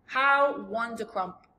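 loud, slow, savoured exclamation; marvelling, delighted giant; beaming delight. A narrator's reading. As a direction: cry it out with a beam. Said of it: "still beaming".

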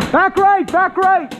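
callout shout. Real, not acted. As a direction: bark the position twice. Calling out enemy position.

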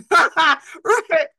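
high, loud movie quote laughing; laughing quote from the Water Boy. Retold or imitated. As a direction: blurt it like the movie. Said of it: "That's from the Water Boy".

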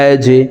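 আজে with the j pushed into a bounce; downward qalqalah. Shown as a demonstration. Teacher demonstrating jim, আজে with a downward echoing j. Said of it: "ধাক্কা দিয়ে উচ্চারণ করতে হবে".

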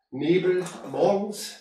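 normal talking voice

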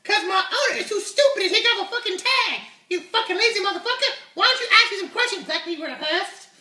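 swaggering high puppet voice; brash puppet unicorn. Acted. Puppet voice Uni continues.

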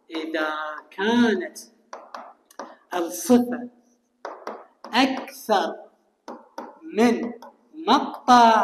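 each word set apart by long pauses; slow emphatic phrasing with pauses between words. Shown as a demonstration. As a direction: spell it out one word at a time so they follow. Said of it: "ركز وياي".

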